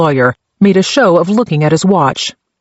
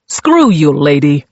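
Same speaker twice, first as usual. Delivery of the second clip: barked insult. Acted. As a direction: snap it at her like a cornered thug. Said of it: "Simkov barked".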